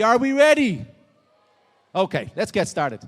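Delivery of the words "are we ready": loud rallying call; hype-man shout; pumping up the crowd. Real, not acted. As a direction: fire up the room. Pumping up audience energy.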